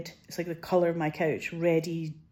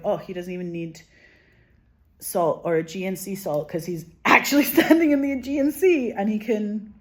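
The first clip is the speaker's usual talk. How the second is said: awed quote; 7 dB louder than usual. Retold or imitated. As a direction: marvel out loud at the old man's luck. Old man eating a tomato in the sea.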